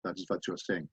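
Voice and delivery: light German accent, teacher's demo. Shown as a demonstration. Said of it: "in a German accent".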